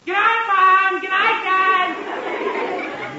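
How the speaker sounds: high, long-stretched goodnight call; drawn-out sleepy calling; yawning goodnight. Acted. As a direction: sing it out into a big yawn. Son calls goodnight, drowsy yawning.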